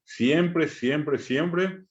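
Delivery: Siempre repeated, rising high each time; emphatic repetition. Shown as a demonstration. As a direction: hammer the word Siempre three times. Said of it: "stressing the rule". (repite Siempre con énfasis, cada vez más agudo)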